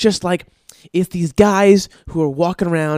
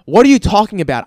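outraged disbelief; 7 semitones higher, 10 dB louder, faster than usual. Retold or imitated.

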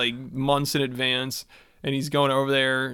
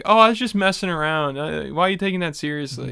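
mock dismissive; 3 semitones higher, 3 dB louder than usual. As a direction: imitate someone waving off a complaint. Imagines her brushing off the dad.

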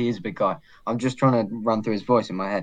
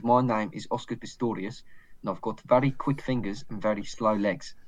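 put-on South African accent; 5 dB quieter than usual. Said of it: "try and say in South African".

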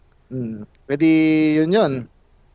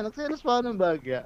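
quiet mock sulk; 7 semitones higher, 7 dB quieter than usual. Repeating the jealous line softly.

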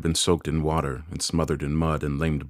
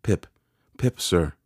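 slightly raised, obedient answer; speaking up; 3 semitones higher, slower than usual. A narrator's reading. Frightened boy repeats name for convict, speaking up. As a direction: give the name more mouth. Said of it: "Give it mouth".

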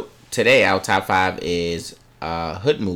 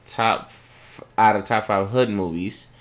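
hesitant; slower than usual. Real, not acted. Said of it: "You sounded kinda hesitant there".

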